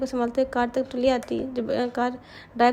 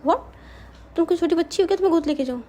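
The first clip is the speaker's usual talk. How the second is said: startled outburst, louder and higher; shocked; 5 semitones higher, 4 dB louder, faster than usual. A narrator's reading. Renuka shocked at drunk Manya's request, loud disbelief. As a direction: blurt it out in disbelief. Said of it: "Renuka shock".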